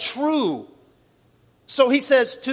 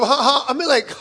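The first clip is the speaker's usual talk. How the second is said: laughing. Real, not acted. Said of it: "laugh heard".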